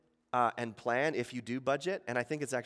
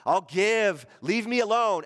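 grudging giver; 4 dB louder, much slower than usual. Retold or imitated. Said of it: "two types of people who give".

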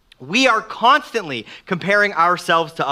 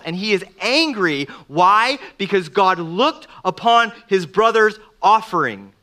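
ordinary talk

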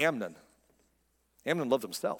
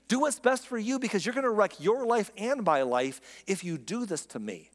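pleading; 5 semitones higher than usual. Retold or imitated. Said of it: "passionate plea to reason".

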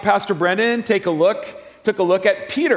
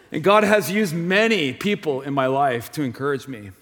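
ordinary talk, nothing marked

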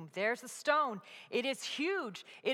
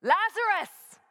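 loud, high commanding call; yell; 10 semitones higher, 12 dB louder, slower than usual. Acted. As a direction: call him out of the tomb with full force. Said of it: "he yells".

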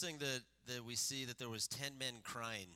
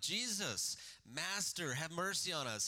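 a mild raised plea, higher; crying out; 4 semitones higher than usual. Acted. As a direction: call out to Jesus for mercy, lightly acted. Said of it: "crying out".

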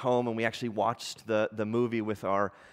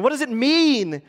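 high, loud bewildered questions; storybook girl's urgent, raised voice; Susan crying out; 11 semitones higher, 7 dB louder than usual. A narrator's reading. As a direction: keep the cry up through each question. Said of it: "cried Susan".

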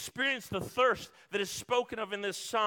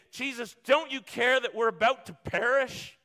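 frightened cry to Jesus in the storm; panicked plea; 3 semitones higher, 5 dB louder than usual. Retold or imitated. Disciples crying out to Jesus in the storm, panicked. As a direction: beg him to wake, scared.

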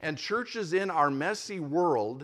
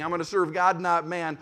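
mildly raised voice, imitating a protester; half-shouted mock slogan, louder than plain talk; 6 dB louder than usual. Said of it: "We can't start shouting".

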